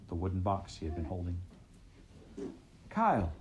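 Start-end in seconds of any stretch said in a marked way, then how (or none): 2.9-3.3 sharp shouted call of his name. Acted. Shouting his name in alarm. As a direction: Heather shouts at the startled rabbit. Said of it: "Heather shouted".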